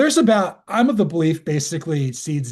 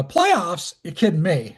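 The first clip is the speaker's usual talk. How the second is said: voice crack; 4 semitones higher, slower than usual. Real, not acted. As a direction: voice cracking on playoffs. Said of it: "you hit the voice crack there".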